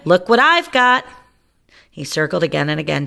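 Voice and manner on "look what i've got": shout. Acted. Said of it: "he shouted".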